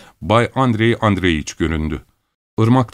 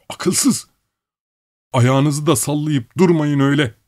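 high-pitched labourer, haggling then bossing; high character voice ordering mates about; high-voiced workman; 7 semitones higher than usual. A narrator's reading. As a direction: pipe up high, pushy with the others.

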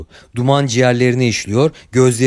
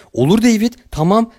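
higher-pitched soothing agreement; humoring, careful; 9 semitones higher than usual. A narrator's reading. Doc to a man seemingly gone mad, humoring him. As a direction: humor him as if he has lost his mind. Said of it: "Aklını kaçırmış biriyle konuşur gibi yavaş konuşuyordu".

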